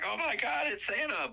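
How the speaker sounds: put-on very high little-kid squeal; adorable excitement. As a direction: imitate a thrilled child spotting Santa. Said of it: "he has the most adorable reaction".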